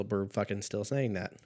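normal talking voice

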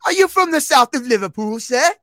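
high, loud hammed-up Scouse accent; over-the-top Liverpool accent; mock British accent. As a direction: play a rowdy Liverpool Scouser. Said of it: "In British accents".

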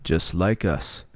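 measured, theatrical presenter intro with deliberate pauses; documentary show host. Acted. Host Gene Smitherbottom welcomes viewers to the episode, polished presenter delivery. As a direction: introduce the programme grandly, letting phrase endings fall.

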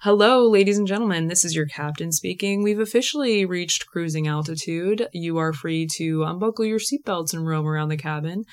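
airline captain announcement; hammed-up cockpit PA announcement; pilot intercom voice. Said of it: "I look like someone who's about to come over the intercom and be like".

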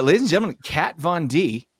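mock announcer. Host teasing next week's topic, mock announcer. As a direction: present it like a show host.

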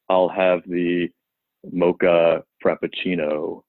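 slow, low, suspenseful; Michael Barbaro impression. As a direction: drawl the order out slowly. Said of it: "that's how he talks?".

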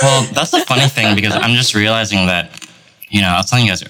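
talking while chewing ice; mouth full. Real, not acted. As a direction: speak around a mouthful of ice. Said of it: "sorry, I'm eating ice".

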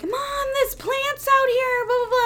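singsongy high child impression; imitated kids. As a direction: imitate an excited kid reporting a find. Imitating kids calling mom.

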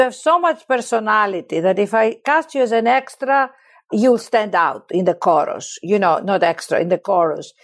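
imitating a director's thicker Greek accent. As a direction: lay on a slightly heavier Greek accent. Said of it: "he spoke with a thicker accent than me".

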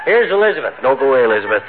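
high excited shout across the house; calling out. Real, not acted. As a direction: call Molly in, amazed. Calling wife from other room.

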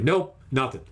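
short dismissive verdicts, with pauses between; mildly aggressive. Retold or imitated. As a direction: retell a blunt, repeated rejection. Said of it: "I kept saying quite, uh, aggressively".

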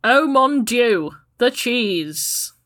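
slow, loud mock French; fake French accent. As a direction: ham up a French exclamation. Pretending to be French.

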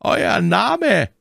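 high, loud curt question; curt demand. A narrator's reading. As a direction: demand the name. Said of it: "zum dritten Mal".

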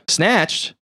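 high, shocked repeat of the word; stunned echo. Acted. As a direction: throw the word back in disbelief. Echoing news of kidnapping.

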